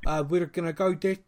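lightly done South African accent. Shown as a demonstration. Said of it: "I can go into it, like, now".

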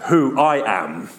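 slow attempt at a big voice; slow would-be booming God voice; big deep voice. Shown as a demonstration. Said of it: "wish I could do a big, deep voice".

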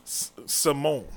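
SIMONE drawn out slowly as "suh-MOAN"; salmon as Simone. Pretend. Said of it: "What are you saying?".

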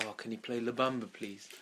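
softly asking, trailing almost to nothing; quiet request. Retold or imitated. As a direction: murmur it shyly to the band. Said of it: "he did it really quietly".

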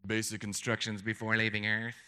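low, mock sci-fi announcer; deep, put-on voice mocking a sci-fi show; alien sci-fi show voice. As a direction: intone it like an alien broadcast. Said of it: "That sounds like an alien sci-fi show".

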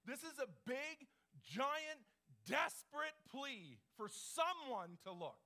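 emphatic preaching. Real, not acted. Preacher building a desperate plea.

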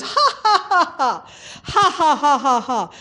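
high ha-ha bursts dropping down; put-on hearty laughter; imitated forced laugh. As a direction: act out someone laughing on and on. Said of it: "he laughed and laughed".

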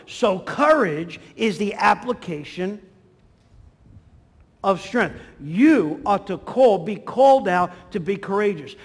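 emphatic preaching. Real, not acted. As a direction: drive the maxim home to a congregation. Preacher declaims the sermon's key maxim.

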